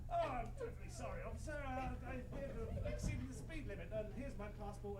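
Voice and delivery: put-on a touch of old-film English cad accent; Terry Thomas accent. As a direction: plead apologetically in a mild comic English toff accent. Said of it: "my best Terry Thomas accent".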